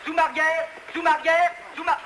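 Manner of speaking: high, insistent repeated command; calling orders. Acted. Director ordering the camera back, calling out insistently. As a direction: call it out to the crew.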